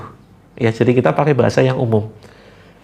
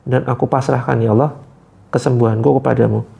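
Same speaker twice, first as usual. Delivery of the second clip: calm surrender. Shown as a demonstration. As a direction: hand it over gently. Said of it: "pelan-pelan ngomongnya". (pasrah dan tenang)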